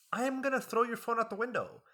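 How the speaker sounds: high, loud exasperated yell; mock yell. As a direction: yell it up to a shriek. Mock rant building to shout.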